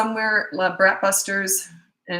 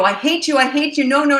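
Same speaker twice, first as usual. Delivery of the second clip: high, loud mock tantrum; mock angry child; 8 semitones higher, 6 dB louder than usual. Mad kid refusing parent's offer, mock tantrum. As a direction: yell it like a furious kid, hammed-up.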